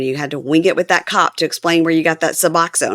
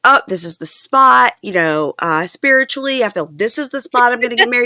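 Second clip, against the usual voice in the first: dreamy spiritual voice; 6 semitones higher than usual. Retold or imitated. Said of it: "She's like".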